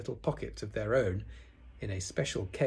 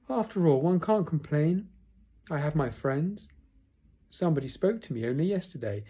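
raised, put-upon donkey voice; self-pitying Eeyore; 6 semitones higher, 4 dB louder than usual. A narrator's reading. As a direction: complain with wounded dignity. Eeyore consoles himself bitterly.

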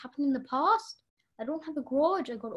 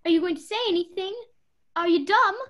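louder, fast, contemptuous taunt; scornful berating; 2 semitones higher, 6 dB louder than usual. Acted. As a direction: sneer and jab at her. Berates the silent maid.

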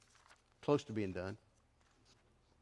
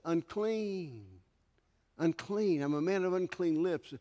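Isaiah's lament. Acted. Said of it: "what did Isaiah say".

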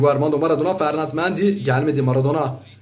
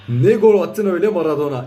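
screaming football commentator. Real, not acted. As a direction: shout it out in amazement. Repeated after goal, louder.

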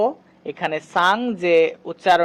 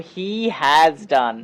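slow model sentence; 3 semitones lower, much slower than usual. Shown as a demonstration. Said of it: "যেমন".

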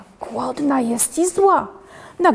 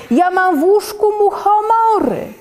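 higher, loud mock yell; uncle yelling; 11 semitones higher, 4 dB louder than usual. Sick uncle yells that mushrooms grew in his bed, higher mock yell. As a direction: call out like a sick uncle in alarm. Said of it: "wrzeszczy wujek chory".

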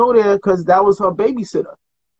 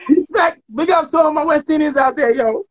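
hyped shout out; 6 semitones higher than usual. Real, not acted. Shout out to his people.

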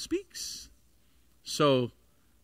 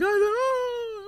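retold overwhelmed gasp. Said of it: "And I was like".

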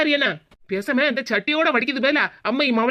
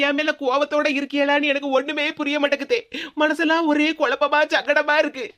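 crying. Acted. Daughter-in-law weeping.

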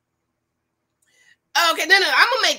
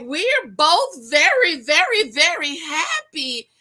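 slow, higher, gushing imitation of Bao; mock excited; 5 semitones higher, 4 dB louder, slower than usual. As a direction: gush it out slowly, playing her delight. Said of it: "she's all excited".

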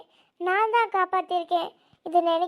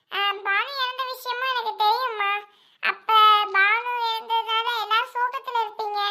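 higher, put-on young man's voice; son's voice on phone; 3 semitones higher than usual. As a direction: play the son explaining away his absence. Voices son Arun on phone.

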